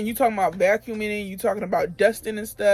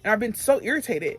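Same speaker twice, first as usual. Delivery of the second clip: mildly irritated retold rant, pitched up; letting her have it; 4 semitones higher than usual. Employee telling off her supervisor, higher-pitched and irritated. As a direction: let her have it, in retelling. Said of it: "I just let her have it".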